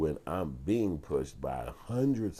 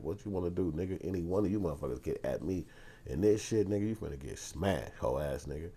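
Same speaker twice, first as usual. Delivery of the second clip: higher-pitched, mildly heated challenge; retold mad mode; 4 semitones higher than usual. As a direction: replay a cussing threat to the crowd. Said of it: "I was on mad mode".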